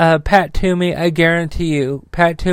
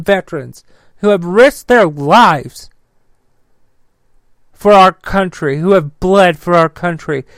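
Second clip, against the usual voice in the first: pissed off, sharp bursts of rising pitch; calling out a senator to Texans in real fury; real anger. Real, not acted. Ranting vlogger urging Texas voters, genuinely pissed and rising. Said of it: "Sorry, I'm fucking pissed".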